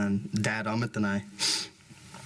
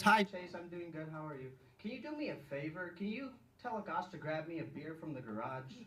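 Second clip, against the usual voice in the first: lightly voiced grandma, higher; a sweet granny asking a favour; 4 semitones higher, 10 dB quieter than usual.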